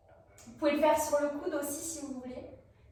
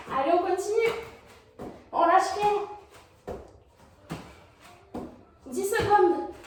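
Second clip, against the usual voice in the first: gym bro; 4 semitones higher than usual. Acted. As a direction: pump up the class. Workout coach pushing the class.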